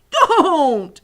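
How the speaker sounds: loud, high, drawn-out plea; distressed cry. A narrator's reading. Poor giant stops the girl talking, crying out. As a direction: wail it as if it hurts. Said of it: "cried the poor B F G".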